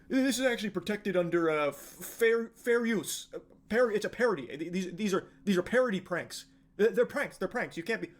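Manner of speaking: lightly mocked stammering excuse-maker; flustered prankster defense. Deluded prankster fumbling a fair use defense, mock flustered. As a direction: stumble over a feeble defense, mildly put on.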